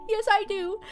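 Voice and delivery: mock defensive reply. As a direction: stand up for your water, hammed-up. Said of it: "And I was like".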